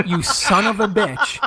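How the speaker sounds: high, drawn-out mock outrage; mock mad. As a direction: curse a prankster slowly, half laughing. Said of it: "like, all mad".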